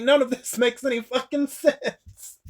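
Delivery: quoting with a laugh breaking in; laughing through quote. Retold or imitated. Recapping Daryl's line to viewers, laughing through it.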